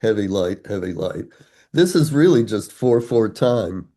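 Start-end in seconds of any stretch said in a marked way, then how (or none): 0.0-1.2 strong-weak chant of "heavy, light"; falling rhythm. Shown as a demonstration. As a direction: tap out heavy, light like a beat. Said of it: "it's a falling rhythm".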